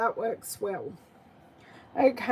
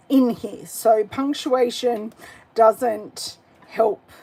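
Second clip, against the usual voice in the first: ordinary talk, nothing marked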